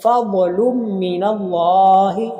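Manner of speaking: slow chanted recitation, हा held long; Quran recitation. Shown as a demonstration. Teacher reciting Quran for students, slow drawn-out chant. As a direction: recite slowly, stretch the हा. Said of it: "लफ्ज़ अल्लाह कड़ी ज़बर है".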